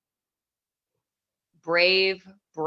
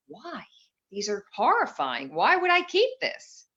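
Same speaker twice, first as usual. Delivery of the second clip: incredulous protest; 3 semitones higher than usual. Retold or imitated. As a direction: push back in retold disbelief. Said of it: "I'm like".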